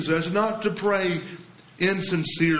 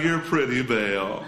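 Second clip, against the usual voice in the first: forced compliment; 4 semitones lower than usual. Retold or imitated. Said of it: "It's forced".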